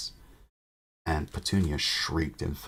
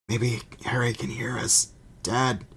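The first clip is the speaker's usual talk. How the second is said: whispered, higher, from behind a wall; hushed whisper; 7 semitones higher, 3 dB louder than usual. A narrator's reading. Family trapped in the fireplace, whispering to each other. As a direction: whisper the hope so only Harry hears.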